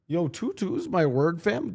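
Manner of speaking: lightly mimicked Toronto accent, lifting high on the last word. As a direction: put on a bit of Toronto slang accent. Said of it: "Just speak with a Toronto accent".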